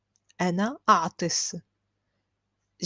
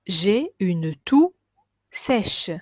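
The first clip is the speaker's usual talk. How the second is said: slow model phrase; 4 dB louder, much slower than usual. Shown as a demonstration. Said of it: "teacher models slow phrase".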